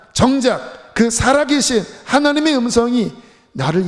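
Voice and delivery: impassioned preaching. Real, not acted. Preacher to congregation on hearing God's voice, impassioned. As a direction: press the point home to the congregation.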